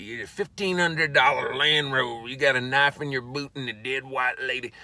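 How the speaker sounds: hint of an accusing sheriff; lightly voiced sheriff. Sheriff finding a suspect with a dying lady, lightly acted accusation.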